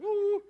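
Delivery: high, loud "woo!"; excited whoop. Shown as a demonstration. Preacher demonstrating how worked up he gets, excited whoop. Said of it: "I get all excited. Like".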